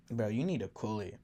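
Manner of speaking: hushed urgent whisper; whispered warning. Retold or imitated. Friend warning him quietly.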